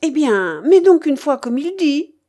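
bossy concession; ordering. A narrator's reading. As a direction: give the order grudgingly but forcefully. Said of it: "m'ordonna-t-elle".

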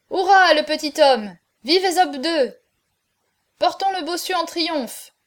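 high, excited hurrah; triumphant cheering. A narrator's reading. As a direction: cheer the champion like a crowd. Crowd cheers the winner.

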